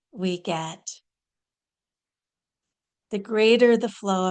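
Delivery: measured channeling delivery with long pauses; deliberate, spaced-out spiritual address; channeled spiritual teaching. Acted. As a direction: deliver it as a guru's message, phrase by phrase. Channels Babaji's spiritual message.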